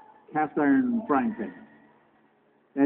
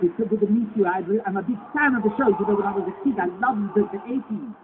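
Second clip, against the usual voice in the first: light imitation of a South African accent, a bit brighter and faster; 4 semitones higher than usual. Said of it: "you know, he talks like this".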